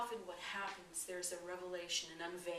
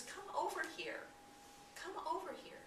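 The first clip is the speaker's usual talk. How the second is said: high, raised call to come closer; calling over; 10 semitones higher than usual. Retold or imitated. Passerby calls the frightened man over, high and raised. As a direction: beckon him over from down the road. Passerby beckons him toward the rope.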